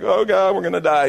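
mildly hammed-up dread; mock panic. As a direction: imitate a panicking man in the boat. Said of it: "he may have been like".

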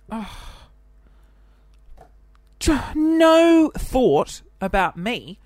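high, slow, loud hurt whine; hammed-up offended wail; mock indignation. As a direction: play the wounded child, stretched out. Mock outrage at parents.

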